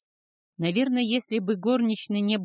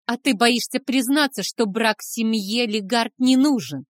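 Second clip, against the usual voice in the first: loud, higher angry taunt; 4 semitones higher, 7 dB louder than usual. A narrator's reading. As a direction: challenge him to admit it. Son taunts father.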